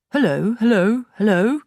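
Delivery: high, loud parrot call. A narrator's reading. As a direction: shout down the chimney like a bird. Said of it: "came the voice again".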